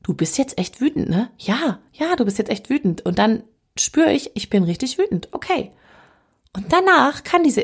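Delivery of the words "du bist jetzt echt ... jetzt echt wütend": gentle self-talk. Retold or imitated. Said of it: "wie mit einer Vierjährigen".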